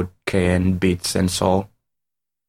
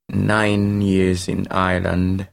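slow, weary delivery; worn out by waiting; tired voice; slower than usual. Real, not acted. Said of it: "a tired voice".

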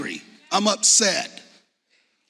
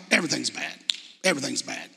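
much softer, dropping, "Everything's bad" moped out; mock gloomy mope; 6 semitones lower, 6 dB quieter, faster than usual. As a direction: sulk it like a self-pitying kid, trailing off. Mopey phrase repeated.

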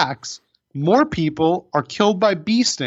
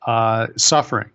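grave documentary narration; nature documentary. Pretend. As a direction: narrate it like a wildlife film. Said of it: "a P S A".

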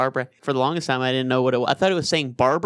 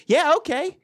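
mock dog voice; 11 semitones higher than usual. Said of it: "they're like".

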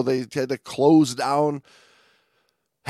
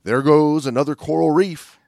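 lightly goofy shrug; goofy clueless sitcom voice; 5 semitones higher, 8 dB louder than usual. Retold or imitated. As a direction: say it like a careless sitcom diver. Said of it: "as we say".

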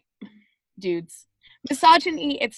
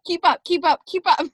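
loud tour guide; 6 semitones higher, 5 dB louder than usual. Pretend. Joining the tour guide bit.

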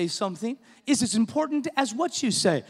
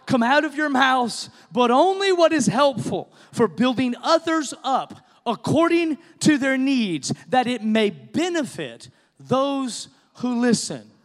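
scripture reading; 2 semitones higher than usual. Real, not acted. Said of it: "Ephesians chapter four".

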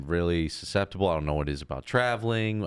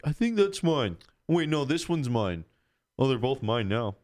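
high mock voice; 7 semitones higher than usual. Louis confused over drinks.

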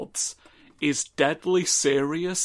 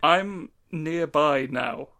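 far from mic; slower than usual. Real, not acted. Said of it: "you sound just as far away".

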